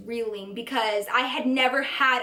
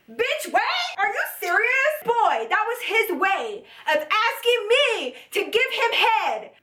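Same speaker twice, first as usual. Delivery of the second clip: much higher, incredulous outburst; outraged disbelief; 9 semitones higher than usual. Real, not acted. Telling viewers about the date's request, outraged high disbelief. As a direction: squeal it like you can't believe your ears.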